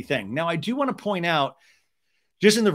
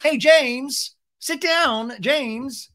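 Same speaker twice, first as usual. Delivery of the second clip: high, raised voice calling him back; imitated calling out; 11 semitones higher, 5 dB louder, much slower than usual. Host calling to a guest walking off set, hammed-up shout. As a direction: call after him, pitched way up. The host calls after departing James.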